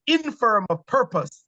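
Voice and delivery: a touch of a scolding Lady Macbeth; Lady Macbeth scorn. Retold or imitated. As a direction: drag it out with mild contempt. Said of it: "her response is".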